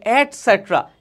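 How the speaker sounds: "এটসেট্রা" said slowly as et-SET-ra; slow teacher's model of "এটসেট্রা"; pronunciation demo. Shown as a demonstration. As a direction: show "এটসেট্রা" as the full word, not letters. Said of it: "এটার উচ্চারণ হচ্ছে".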